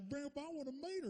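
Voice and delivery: light mom voice; eager mom. Retold or imitated. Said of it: "She's like".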